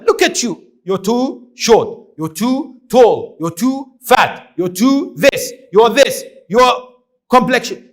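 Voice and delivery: a preacher mimicking cruel mockery; mocking taunts. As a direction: jeer at them like a bully. Mocking people's looks for laughs.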